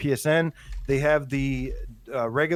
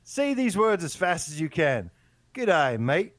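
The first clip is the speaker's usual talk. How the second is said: higher-pitched mock Australian accent; 6 semitones higher than usual. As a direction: read it like an Aussie giving a lesson. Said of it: "your first Australian accent lesson".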